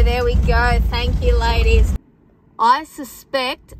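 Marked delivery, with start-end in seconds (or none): 0.0-0.8 loud repeated praise. Real, not acted. Sheep moving, praising them. 0.9-1.9 loud, cheerful thanks to the flock; loud thanks to the ewes. Real, not acted. Thanking the sheep aloud.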